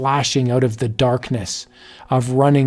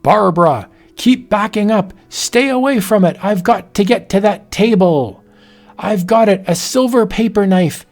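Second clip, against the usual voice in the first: urgent fight; 6 semitones higher than usual. Acted. Husband fights the werewolf.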